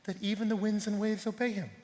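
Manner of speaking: soft, slow, acted wonder; hushed fearful awe. Disciples after the storm obeys, hushed fearful awe. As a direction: ask it slowly, as if awestruck. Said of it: "they were filled with fear and said".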